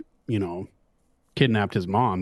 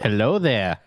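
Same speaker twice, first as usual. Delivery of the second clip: bad Obi-Wan accent; 3 dB louder, slower than usual. Shown as a demonstration. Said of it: "That's a bad accent".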